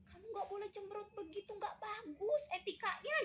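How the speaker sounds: mock scolding. Replays the scolding on walking in.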